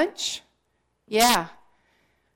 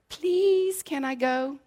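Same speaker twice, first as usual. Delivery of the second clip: put-on childlike plea; 7 semitones higher, slower than usual. Child pleading in retold note.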